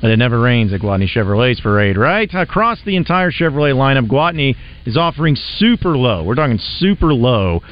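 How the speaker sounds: lively host-read car dealer spot; radio ad read. Acted. Radio host pitching a Chevrolet dealer to listeners, upbeat ad read. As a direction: sell it with punched key phrases. Live sponsor read on air.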